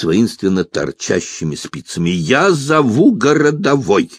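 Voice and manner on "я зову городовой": high, drawn-out threat to call for help; indignant German lady calling out; raised voice. A narrator's reading. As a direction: pitch it up and stretch it out. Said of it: "повысила она голос".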